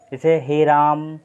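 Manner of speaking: हे राम with the vowels held long and slow, as a far-off call; slow elongated हे राम; drawn-out call. Shown as a demonstration. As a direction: stretch the vowel as if calling from afar. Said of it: "दूर से बुलाने के लिए किया जाता है".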